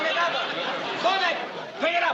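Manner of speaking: shouted order. Acted. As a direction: yell it like a tyrant boss. Boss barking orders at employee.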